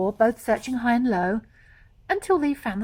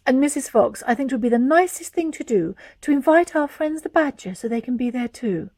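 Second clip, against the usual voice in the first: bright chatty lady fox; Missus Fox voice; 2 semitones higher, 6 dB louder than usual. Acted.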